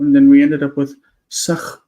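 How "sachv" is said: Sachv with a bare v left hanging at the end; "Sachv" with the final v detached; dangling final v. Shown as a demonstration. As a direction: say "Sachv", ending on a separate, stranded v sound. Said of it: "with the V just hanging out there".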